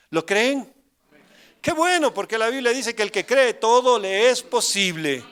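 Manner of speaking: rousing exclamation. Real, not acted. Preacher rallying the congregation.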